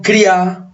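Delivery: "cría" said as criá, high and drawn out; stress on final A. Shown as a demonstration. Teacher returns to the voseo example, stress on the final A of "cría". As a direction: lean on the last vowel of "cría". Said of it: "tiene acento acá, en la abierta".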